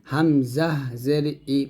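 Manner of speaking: হামজা জের ই, drawn out, ই from the start of the throat; hamza from throat's start. Shown as a demonstration. Teacher models hamza for learners, ই from the throat's start. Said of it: "গলার শুরু থেকে বলবো".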